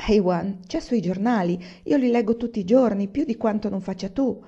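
pressing her point with fervour; ardent insistence. Acted. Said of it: "disse con ardore Tamà". (moglie fervida insiste con ardore)

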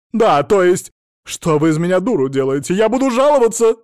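loud, high outraged threat; shrieking threat; furious threat. Acted. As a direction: explode in outrage. Mother threatening to complain.

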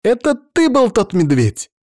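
high, loud accusing cry; excited exclamation. Acted. Natasha bursts into the ward, pointing at him: high, loud accusing cry. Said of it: "что она воскликнула".

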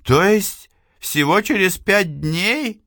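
high, alarmed disbelief; frightened. Acted. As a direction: panic rising in the question. Испуг Эйвилны. (испуганно)

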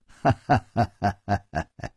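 hearty put-on laugh. Nan Gongling laughs to reassure Chu Liuxiang. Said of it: "南宫玲又笑着说".

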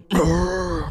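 low rumbling throat growl; imitated roar. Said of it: "nó rống lên một cái liền".

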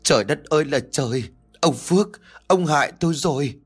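acted anguished wailing, rising high; loud wailing. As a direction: wail and blame her husband. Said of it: "bắt đầu bù lu bù loa".

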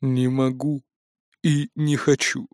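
a hint of a cold flat refusal; understated dry answer; dry reply. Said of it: "сухо ответил Эйд".

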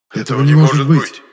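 loud joint outcry of disbelief; both shout it at once in shock; exclaiming together. Acted. Two friends cry out over vanished tracks, loud disbelief. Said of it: "воскликнули мы с Енохом одновременно".

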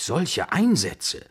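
high, drawn-out exclamation of dismay; dismayed stammer. A narrator's reading. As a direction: balk at the stakes, stretching the words. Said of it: "stammelte ich". (entsetzt gedehnt)

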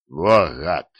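gasp. A narrator's reading. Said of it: "ахнул Диффенбахи".

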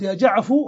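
يا جعفو ending on a clear u; closed u ending. Shown as a demonstration. Teacher repeating the non-waiting form. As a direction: finish يا جعفو on u. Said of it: "خلاص علم أنك رخمت فلا ينتظر".

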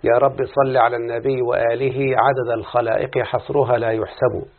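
measured, devout prayer recitation; opening prayer. Acted. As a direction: recite the opening supplication reverently.

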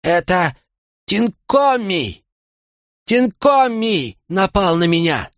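high, slow, straining shout to the crowd; strained high slow cry of an old king. A narrator's reading. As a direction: summon all strength and call out the accusation. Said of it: "крикнул стоящим в глубине улицы людям".

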